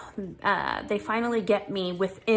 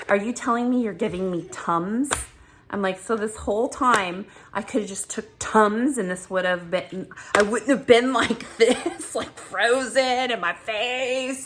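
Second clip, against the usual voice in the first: upset disbelief; 3 semitones higher than usual. Retold or imitated. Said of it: "I was crying in the pharmacy".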